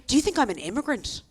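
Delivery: "immigrant" hit a bit hard; offended question landing on "immigrant"; stress on IMMIGRANT. Retold or imitated. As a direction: lean pointedly on the word "immigrant". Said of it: "she hit the word immigrant a bit hard".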